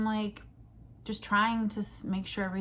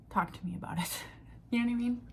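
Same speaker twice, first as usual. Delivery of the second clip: embarrassed whisper; 4 semitones higher, faster than usual. Real, not acted. Embarrassed aside about cart guy.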